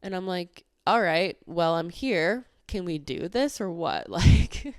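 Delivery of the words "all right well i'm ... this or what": a hint of sass, ending on a challenge; mock impatient retort. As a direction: act fed up with the agent, half in jest. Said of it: "I didn't say it like that".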